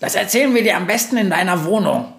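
high, quick voice keeping a secret; secretive visitor. Acted. Crow promising to explain at home, high and quick. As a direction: hurry the witch inside. Character voice in story.

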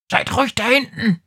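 high, fast rat hiss. Acted. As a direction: hiss it at them like a cross rat. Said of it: "zischt von vorne eine große Ratte".

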